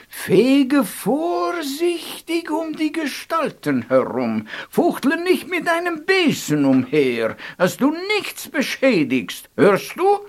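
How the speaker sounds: a hint of a strict elder; stern warning. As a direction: lift the voice high and scold gently. Old man warns Chu about broom.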